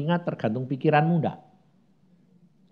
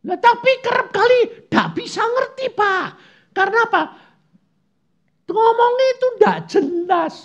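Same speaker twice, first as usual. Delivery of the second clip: much higher, put-on voice of a confused listener; complaining churchgoer. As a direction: play the puzzled member asking Pastor. (jemaat bingung mengeluh dengan suara tinggi)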